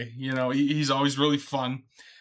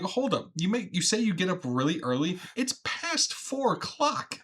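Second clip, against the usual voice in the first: higher, slowing, laughing at the end; incredulous; 4 semitones higher than usual. Retold or imitated. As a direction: challenge the claim in mock shock. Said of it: "I'm like".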